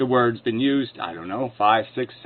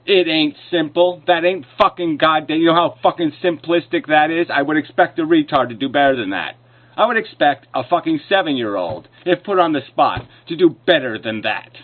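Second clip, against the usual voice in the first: raised, emphatic angry rant; exasperated anger; 3 semitones higher, 3 dB louder than usual. Real, not acted. Debater scorning the opponent's simplistic rebuttal, angry. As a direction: berate an opponent in real exasperation.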